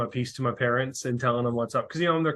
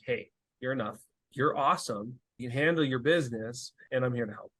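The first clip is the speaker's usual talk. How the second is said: tender affirmation. Retold or imitated. Affirming words to his kids.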